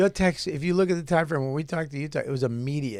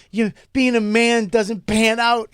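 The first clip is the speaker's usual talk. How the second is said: mock sad friend; 5 semitones higher, 4 dB louder, slower than usual. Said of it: "He was so mad and sad".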